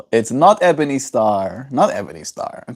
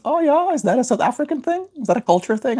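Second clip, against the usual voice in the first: mimicking Eric; faster than usual. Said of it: "and he goes".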